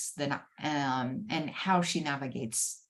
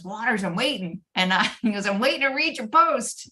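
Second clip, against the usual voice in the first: impatient nagging; 7 semitones higher, 8 dB louder than usual. Retold or imitated. Steve texting, impatient.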